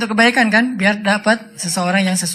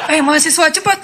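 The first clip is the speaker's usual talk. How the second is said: seruan menyuruh; 8 semitones higher than usual. Retold or imitated. Seruan menyuruh mahasiswa mengejar damri.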